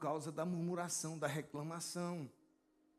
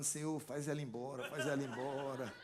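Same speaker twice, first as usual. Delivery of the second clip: laughing prayer; 3 semitones lower than usual. Retold or imitated. Pastor retells his joking prayer.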